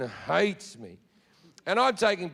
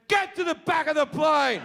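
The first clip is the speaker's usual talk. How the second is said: mock commanding order; 6 semitones higher than usual. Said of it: "I point at the man and I went".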